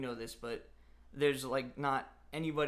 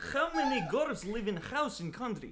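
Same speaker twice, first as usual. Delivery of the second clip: very high, thick-voiced put-on Russian accent; 9 semitones higher, 4 dB louder than usual. Asked to do a Russian accent and question Rhonda: Russian accent. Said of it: "let's go back to the Russian accent".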